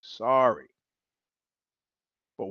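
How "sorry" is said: much softer, deadpan tank tank; mock German, quietly unbothered; German soldier. German answers Italian soldier, much softer and deadpan. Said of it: "the German guy goes".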